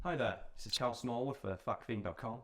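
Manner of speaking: phone voice. Acted. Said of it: "You can hear my phone voice".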